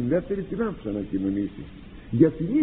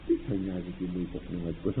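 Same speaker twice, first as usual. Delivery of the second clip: mock retort; 9 semitones lower, 7 dB quieter, faster than usual. Penitent snaps back at nosy friend.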